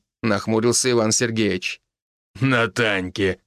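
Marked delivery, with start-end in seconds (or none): 2.4-3.4 slow chuckling reply. A narrator's reading. Nikitich teasing about the wedding, chuckling. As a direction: say it with a laugh. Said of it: "хохотнул Никитич".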